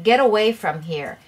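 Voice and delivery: mild shouted command; mock yell. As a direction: call it out like the angry boy. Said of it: "this is what he's yelling".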